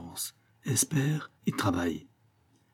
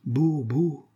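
higher-pitched, moved exclamation; moved to happy tears, lightly acted; tears of joy; 5 semitones higher than usual. A narrator's reading. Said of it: "fit Biot, en pleurant de joie". (ému aux larmes de joie)

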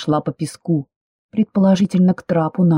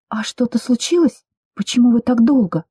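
higher, anxious questions; a touch of alarm, pitched up; worried; 6 semitones higher than usual. A narrator's reading. Heroine fears something went wrong, anxiously asking. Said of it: "Снова встревожилась я".

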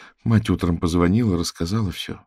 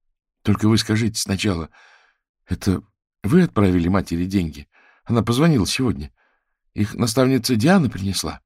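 breathless agitated; 2 semitones higher, 4 dB louder than usual. Acted. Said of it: "говорил срывающимся голосом".

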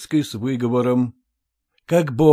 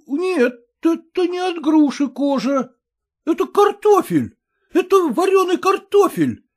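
much higher excited discovery; excited exclamation; 14 semitones higher, 3 dB louder than usual. A narrator's reading. Krotikov tells the students what he found, excited. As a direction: announce it eagerly. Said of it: "воскликнул Кротиков".

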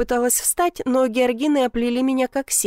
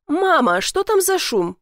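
put-on a boy calling out, higher; 7 semitones higher, slower than usual. A narrator's reading. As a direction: call to mom from outside. Boy calls out to mother. (мальчик кричит маме)

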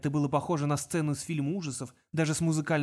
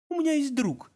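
put-on higher, mysterious young caller; 11 semitones higher, 3 dB louder than usual. A narrator's reading. Caller teases Kong on phone, mysterious. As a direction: keep it secretive. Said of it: "сказал таинственный голос".

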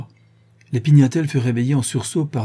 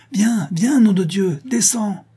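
high, louder frantic shout; urgent shouting; 10 semitones higher, 3 dB louder, slower than usual. Acted. Marcel urging his wife down, high frantic shout. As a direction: yell for her to hurry. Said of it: "cria-t-il".

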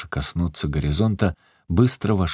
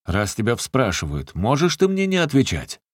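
gruff demand rising sharply high; bully her into answering; mock-stern holler; menacing bark; 5 semitones higher than usual. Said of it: "гаркнул Захар грозно".

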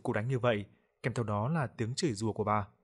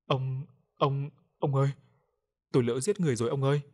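stammered sobbing confession, higher and louder; crying, stammering; 3 semitones higher, 4 dB louder than usual. A narrator's reading. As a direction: blurt it out in panic, words tumbling fast. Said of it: "vừa khóc vừa lắp bắp". (vừa khóc vừa lắp bắp, hoảng loạn)

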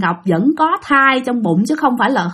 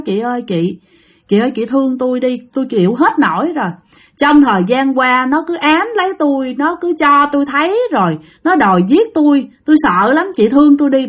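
retold crying plea. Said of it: "bả khóc quá trời".

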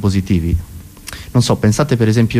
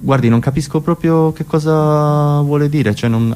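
barista; 3 semitones higher, slower than usual. Acted. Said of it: "il barista gli fa".

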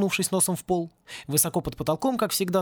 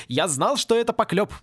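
higher, triumphant relief; beaming with happiness; 5 semitones higher, 3 dB louder than usual. A narrator's reading. Happy professor to Порри, joyful vindication. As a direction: exclaim it, vindicated and delighted. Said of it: "Профессор просто сиял от счастья".

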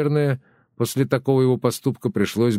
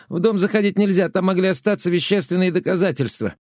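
much higher, breathless panicked orders; frantic old woman; 8 semitones higher than usual. Acted. Tereza frantically orders Nelli and Regina to the police, much higher. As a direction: fire off commands in rising panic.

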